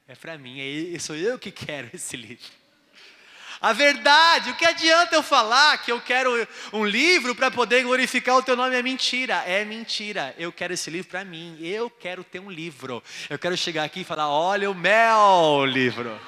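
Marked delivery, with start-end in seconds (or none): 3.6-10.3 loud, high sermon cry; preaching. Acted. Pastor preaching to the church, loud and high. 14.3-16.2 proud show-off. Pretend. Showing off his book.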